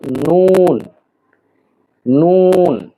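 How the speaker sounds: নুন with its oo stretched; drawn-out letter name. Shown as a demonstration. Teacher introducing the next letter, নুন drawn out. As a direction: lengthen each নুন on a level note. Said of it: "উচ্চারণ করতে হলে আমাদেরকে জিহ্বার আগার কিনারা".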